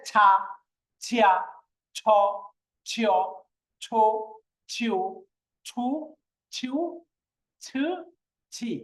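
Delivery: each syllable from ছা to ছি starts with a strong air puff; forceful aspiration. Shown as a demonstration. Teacher drilling the letter for students, ছ forcefully aspirated. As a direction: drill ছা, ছিয়া, ছ with pressed "chh", one by one. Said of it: "একটু জোর দিয়ে, চাপ দিয়ে".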